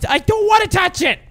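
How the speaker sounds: high-pitched protesting cry; panicky refusal. Real, not acted. Player told to touch an infection, panicky refusal. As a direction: protest in a high, squeamish yell.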